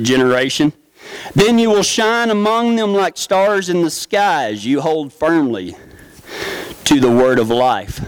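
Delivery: scripture reading. Acted.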